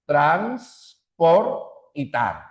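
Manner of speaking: Trans, por, tar said as separate syllables; split into syllables. Shown as a demonstration. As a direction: break it into three clean beats. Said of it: "tenemos tres sílabas". (separado en sílabas)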